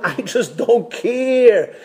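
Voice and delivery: high, drawn-out shrug; exaggerated indifference. Any person's apathetic moment, exaggerated indifference. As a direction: stretch it out, past caring.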